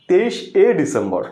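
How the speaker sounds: "তেইশে" slowly split as তেইশ, then এ; slow dictation of "তেইশে" as তেইশ-এ; separated এ ending. Shown as a demonstration. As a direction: detach a bare e at the end of "তেইশে". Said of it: "তোমাকে লিখতে হবে".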